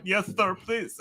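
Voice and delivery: high, softened grateful plea; mock-submissive little voice; meek acceptance. Humbled shoveller accepting a neighbour's tool, meekly.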